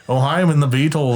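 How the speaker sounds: light Liverpool British accent; a rough, not very good Liverpool accent. Shown as a demonstration. Showing friends British accents, Liverpool accent. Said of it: "like, the Liverpool British accent".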